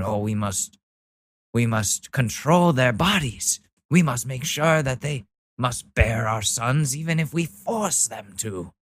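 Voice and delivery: lightly put-on pompous voice; hint of a righteous patriarch; mock zealot. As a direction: parody a solemn zealot, drawing out the last words. Mocking religious zealots' creed.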